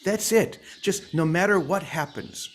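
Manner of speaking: playful impression of a simple, heartfelt message in a Boston accent; Vicky. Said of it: "I'm gonna imitate Vicky now".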